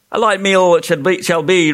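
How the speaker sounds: a touch of a hearty roar; mild roar. A narrator's reading. Humbug roaring approval of a light meal, mild roar. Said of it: "roared the bug".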